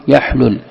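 "يحلل" repeated as yaḥlul; a u between the two lāms of "يحلل"; damma reading. Shown as a demonstration. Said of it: "قراءة الضم". ("يحلل" بضم اللام)

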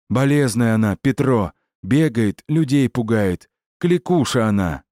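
выше и громче, умоляюще; заступись горячо; горячая мольба. Acted. Священник оправдывает жену. (горячая мольба)

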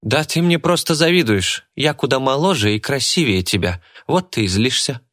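put-on high taunting girl voice; mock her jealousy, pitched high. A narrator's reading. Girl taunts the witch about jealousy, high voice.

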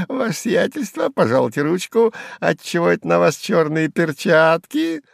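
high, mocking squeal; mock him in a high squeal; high sneering jester voice; squeaky mocking jester. A narrator's reading. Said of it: "пищал Сувенир".

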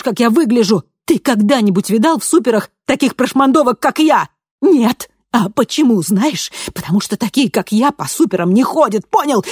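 loud, high furious tirade; яростная тирада; furious rant. A narrator's reading. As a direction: rant at him, outraged.

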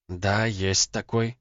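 slow, hesitant answer; unsure but focused. Acted. Wife checking the gun, slow and hesitant. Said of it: "неуверенно произнесла она".

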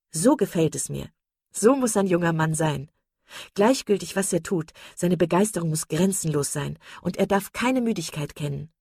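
begeistert, etwas lauter und höher; schwärmerisch. Acted. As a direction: wie ein verliebtes Mädchen schwärmen. Marian schwärmt. (Marian schwärmt von Willoughbys Ausdauer)

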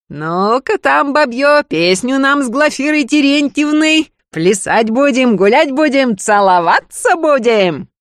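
rowdy sorcerer calling out at the wedding; rowdy commands. A narrator's reading. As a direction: boss the room like a drunk at a feast. Drunk sorcerer orders the women.

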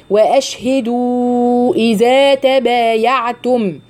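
slow, measured tajweed chanting of the verse; Quran recitation. Acted. Teacher recites the verse to her student in tajweed chant.

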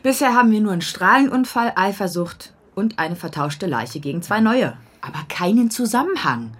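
put-on young detective Busse. Assistant to her boss, sulky about her office mate. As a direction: push the condition up high and bratty.

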